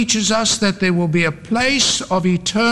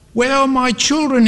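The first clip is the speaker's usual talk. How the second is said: high, desperate plea; pleading; 8 semitones higher than usual. A narrator's reading. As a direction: plead in a raised voice for the missing. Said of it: "he pleaded".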